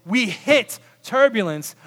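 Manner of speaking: slow, emphatic statement of the ordeal; slow, weighty passenger's report; blunt dramatic complaint. Acted. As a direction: land each word heavily. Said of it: "I say".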